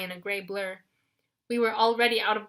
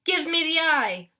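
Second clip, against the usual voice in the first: wailing; 7 semitones higher, 4 dB louder than usual. A narrator's reading. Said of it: "Wasp wailed".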